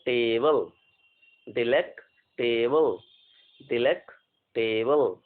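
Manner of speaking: slow, syllable by syllable; dictating slowly. Shown as a demonstration. Teacher dictating spelling parts to students, slowly. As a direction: break the word into chunks. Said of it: "dictate कर लें इसको".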